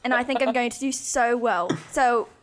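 put-on British accent in casual chat. Podcast host announces she will talk British, put-on British accent. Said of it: "talk in a British accent".

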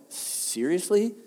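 slow, rising disbelief; acted blown-away question, drawn out; shocked indignation. Explaining indignant to the congregation, shocked disbelief. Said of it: "it's just like you're shocked".

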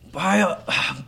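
big minotaur voice, loud, high and slow; Gary. Acted. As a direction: hail an old friend in booming, drawn-out disbelief. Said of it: "Gary the Minotaur".

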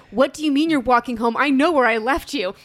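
wife arguing on the phone, loud disbelief; exasperated. Retold or imitated. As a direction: demand an answer, half exasperated. Wife retells argument on phone.

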